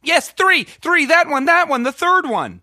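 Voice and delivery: urgent. Acted. Urgent pleading with operator.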